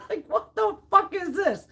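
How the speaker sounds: breathy whisper through a laugh; amused whispered disbelief; whispered aside. Real, not acted. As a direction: drop to a stunned whisper. Whispered aside after rant.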